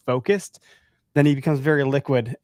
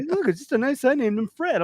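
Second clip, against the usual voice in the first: imitating son; 11 semitones higher than usual. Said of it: "I'm like".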